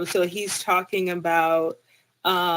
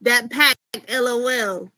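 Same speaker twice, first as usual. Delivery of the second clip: quick, louder mock Southern rapper read; a light touch of a Louisiana rapper voice, fast and loud; impression of a rapper; 3 semitones higher, 5 dB louder, faster than usual. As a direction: rattle off the tweet like a Southern rapper, half-joking. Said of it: "I'm gonna try to do my best Boosie impersonation".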